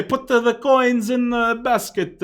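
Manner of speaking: put-on a playful Italian plumber accent. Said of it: "he better have an Italian accent".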